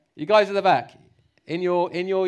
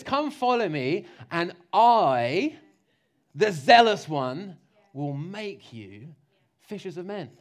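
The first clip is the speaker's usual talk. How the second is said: slow, stretched, emphatic "Come follow me"; earnest invitation; 5 dB louder, slower than usual. Shown as a demonstration. Preacher stressing Jesus's call, slow and earnest. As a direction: draw out each phrase sincerely. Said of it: "No, he says".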